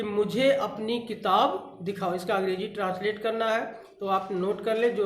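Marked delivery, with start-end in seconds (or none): 0.0-2.1 slow dictation. Shown as a demonstration. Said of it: "पहला वाक्य note कर लें".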